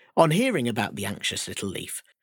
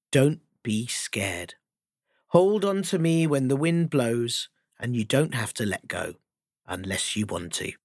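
reassuring. Acted. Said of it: "this message said".

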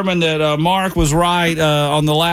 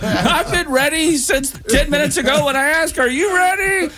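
mock exasperation; 9 semitones higher than usual. Mock exasperated retold complaint.

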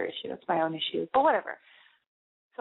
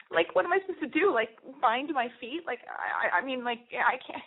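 holding back tears; 5 semitones higher than usual. Retold or imitated. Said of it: "I'm trying to hold back tears".

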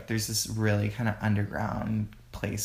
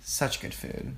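whispered; 7 dB quieter, slower than usual. Real, not acted. Trailing praise of restaurant.

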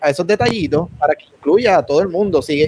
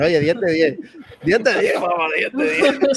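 laughing; 3 dB quieter than usual. Real, not acted. Laughing praise.

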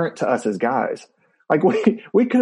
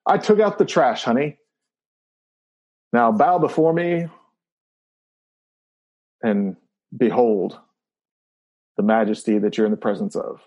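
mock royal decree over chores; hammed-up majestic boast, bow before me; megalomaniac rant. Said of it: "We, like, we all do that".

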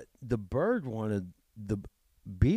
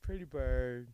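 parrot voice; 5 dB quieter than usual. Pretend. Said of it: "parrot voice".

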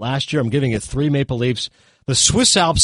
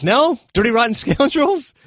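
exasperated; 11 semitones higher, 3 dB louder than usual. Retold or imitated. Exasperated, prompting makeup artist.

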